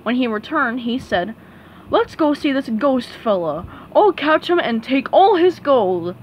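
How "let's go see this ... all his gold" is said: lightly voiced greedy crab; gruff eager crab boss; Mister Krabs voice.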